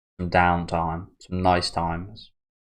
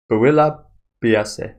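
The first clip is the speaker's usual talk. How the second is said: dish name in a hammed-up French accent, slow and higher; mock French accent; 4 semitones higher, 6 dB louder, slower than usual. Trying the French dish name again, in a mock French accent. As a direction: Builla biase said slowly like a proud French chef. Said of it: "Don't know why I put that accent on".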